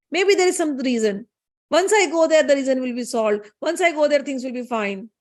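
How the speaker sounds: mildly insistent retold plea, rising at the repeats; insistent pleading. Sati arguing with Shiva to visit her father, insistent pleading. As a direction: argue the case as an eager daughter.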